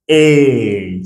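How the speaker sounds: the vowel E said on its own; E as in day; model sound. Shown as a demonstration. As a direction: isolate the E sound clearly. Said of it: "on prononce la E".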